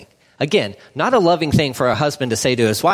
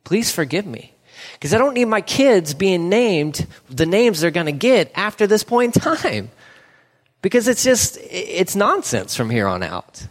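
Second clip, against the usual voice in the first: humble prayer; 3 semitones higher than usual. Acted. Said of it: "stop and say".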